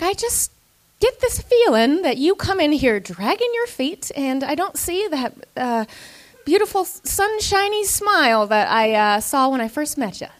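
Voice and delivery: sugary boss voice. Retold or imitated. Manager's sweet disappointed speech.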